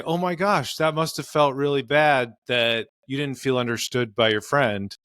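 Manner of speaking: meet her feeling with gentle understanding; validating, healthy way. Shown as a demonstration. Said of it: "a healthier way of listening".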